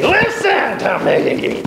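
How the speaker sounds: high, slow and drawn out; teacher demoing an urgent plea. Shown as a demonstration. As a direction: plead slowly, pulling them back. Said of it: "me grabbing your coattails".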